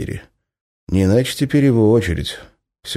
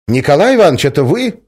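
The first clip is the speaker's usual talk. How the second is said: calling out; 9 semitones higher, 7 dB louder than usual. Acted. Calling across cells.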